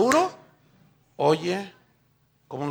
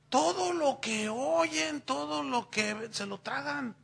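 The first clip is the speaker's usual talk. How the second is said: slow, drawn-out todo, each word weighed; stress on todo; 7 semitones higher, 5 dB quieter, slower than usual. Real, not acted. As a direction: lean hard on todo, take your time. Preacher repeats, stressing todo slowly.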